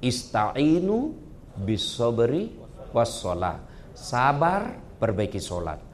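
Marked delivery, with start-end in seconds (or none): 0.0-3.6 slow, solemn recitation of the Arabic; quoted Quran verse. Shown as a demonstration. Preacher reciting the verse slowly for the couple. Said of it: "Dua kata Allah".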